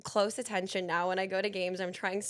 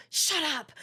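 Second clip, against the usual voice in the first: retold hushed warning; 6 semitones higher than usual. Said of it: "I was like".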